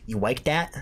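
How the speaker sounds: "You like that?" with a rising question at the end; questioning tune. Shown as a demonstration. Correcting chat on the catchphrase, rising question.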